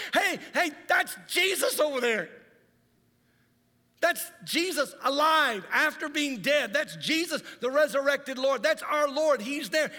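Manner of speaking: high, loud excited cries; excited shout. Acted. Peter calls to James and John, excited and loud. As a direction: shout it like you've just spotted him.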